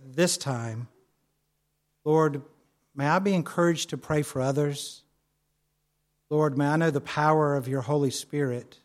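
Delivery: softened, halting spoken prayer; quiet, measured prayer. Shown as a demonstration. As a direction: pray gently, pausing between phrases. Models a prayer for congregation.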